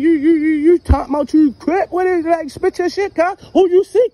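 mock gang member shouting him down; aggressive interrogation. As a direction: get in his face and demand an answer. Prank gangster interrogation heats up.

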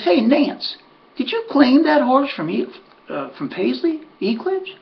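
imitating Earl. Earl on the bus teasing Nance about the claim, mock high ribbing. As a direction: tease her like a needling old racetrack pal. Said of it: "he goes".

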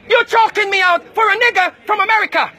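high, strained real yell while being choked; strained shout. Real, not acted. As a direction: shout it out while gripped by the throat. Being choked by church members.

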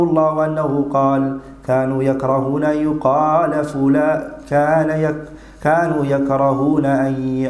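measured classical Arabic read aloud, vowels held; formal Arabic text reading. Real, not acted.

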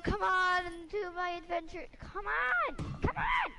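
high, rising mock-rallying cry; playful shout that jumps very high; playful calling. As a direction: call them along, climbing to a squeal. Calling teammate along to adventure.

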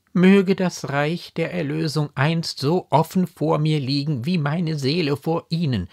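impassioned, lofty declaration; full of pathos. A narrator's reading. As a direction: swear it with heartfelt pathos. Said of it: "voll Pathos getan".

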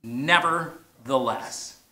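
drawn-out "Nevertheless" in unison; slow unison. Shown as a demonstration. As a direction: lead the crowd slowly through "Nevertheless". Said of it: "say that with me".

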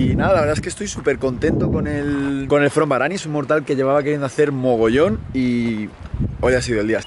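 hoarse voice after shouting; hoarse from yelling. Real, not acted. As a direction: voice worn out from yelling. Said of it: "Estoy bastante afónico de gritar".

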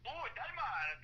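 high, hammed-up Dutch accent; attempted Dutch accent. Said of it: "trying to do a Dutch accent".

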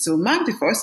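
Defoss said the French way; French pronunciation. Shown as a demonstration. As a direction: say Mark Defoss like a proud French speaker. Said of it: "I'm gonna pronounce with the best French accent I can".

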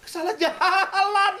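slow laughing tease. Real, not acted. Teasing a friend who got lost.

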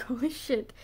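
breathy stunned whisper. Retold or imitated. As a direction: whisper it in awe. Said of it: "I was like".

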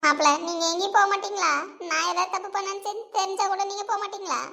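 a scared aunt pleading, babbling her confession; lightly voiced fearful mother-in-law; frightened aunt. Frightened aunt confessing to her son-in-law, pleading and babbling.

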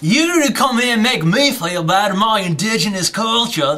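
mock-offended Australian accent; fake Australian accent. Pretending his friend offended him, mock Australian accent. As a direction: play wounded in a light Aussie twang. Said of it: "distinctly Australian accent".

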